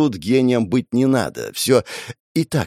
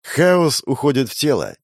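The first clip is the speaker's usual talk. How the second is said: ordinary delivery, nothing marked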